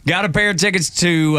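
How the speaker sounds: usual speaking voice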